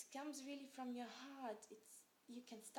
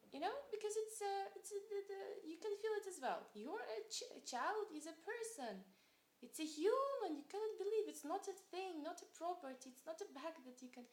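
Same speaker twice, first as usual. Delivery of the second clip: passionate plea; 7 semitones higher, 5 dB louder than usual. Real, not acted.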